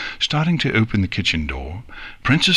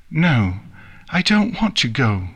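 put-on mild childish snap, pitched up; snapped; 5 semitones higher than usual. Nix refuses the princess, snapping mildly. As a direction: snap back in refusal, lightly. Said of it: "Nix snapped".

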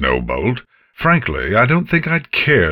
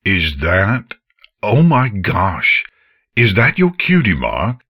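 louder, tumbling broken phrases; excited stammering; 4 semitones higher, 5 dB louder than usual. Acted. Father stammering in wonder at his daughter's cutie mark. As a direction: stumble over words in amazement. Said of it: "her father's stammering".

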